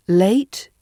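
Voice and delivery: Late with a light, clear L at the front. Shown as a demonstration. Teacher repeats the pair, Late with a clear L. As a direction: keep the L of Late forward. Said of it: "from a clear sound".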